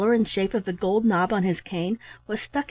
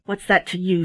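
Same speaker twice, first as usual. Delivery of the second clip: savagely. Acted. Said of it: "said I savagely".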